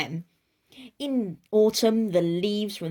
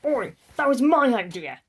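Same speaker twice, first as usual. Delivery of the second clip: loud, higher indignant Oi; indignant outburst; 5 semitones higher, 6 dB louder than usual. Acted. Jonathan Ripples loudly protesting to Martin Launderette, indignant. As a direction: bristle and claim the idea loudly. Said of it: "said Jonathan Ripple".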